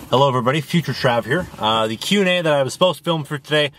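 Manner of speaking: slight lisp with a retainer in; talking with a retainer in. Real, not acted. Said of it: "apologies for the lisp. I have my retainer in".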